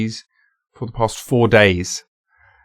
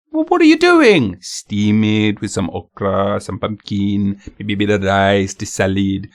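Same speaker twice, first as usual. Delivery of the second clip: mock fishmonger. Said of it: "That wasn't how he sounded at all".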